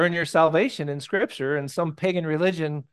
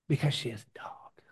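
hushed reveal; 10 dB quieter than usual. Real, not acted. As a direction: whisper it, very softly. Hushed punchline after a pause.

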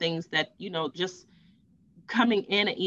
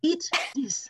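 put-on light French chef accent, higher pitched; 6 semitones higher than usual. French chef pushing food on his nauseous pregnant coworker, lightly voiced French accent. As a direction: imitate a French sous chef urging her, with a mild French accent. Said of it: "strong French accent".

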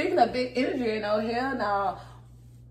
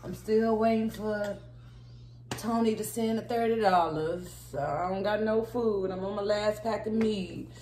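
put-on old lady voice; 4 dB quieter than usual. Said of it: "old lady or old grandma".

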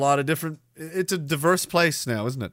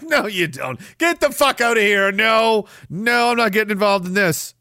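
mildly hammed-up angry refusal, pitched up; mock indignant refusal; 5 semitones higher than usual. Refusing Keyhole's shady offer, mock indignant. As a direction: play at sending someone packing.

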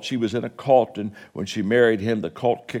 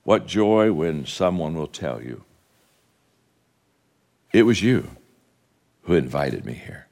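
reciting a poem; 4 semitones lower than usual. Acted. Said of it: "poem that says".

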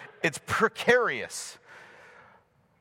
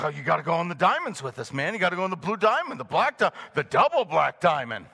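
put-on pushy teen friends; 4 semitones lower, faster than usual. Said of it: "I remember friends like".

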